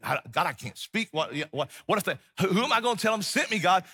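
stammering, rushed plea, pitch rising; flustered protest. Acted. Moses pleading with God that he can't speak, flustered.

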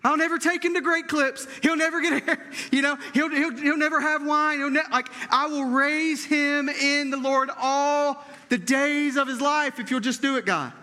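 hammed-up desperate promise to God; mock pleading vow. Hannah's bargaining vow, played for laughs.

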